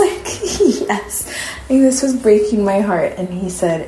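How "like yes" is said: laughing through the words; 1 laughing yes. Real, not acted. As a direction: answer with a helpless laugh. Laughing reply to little brother.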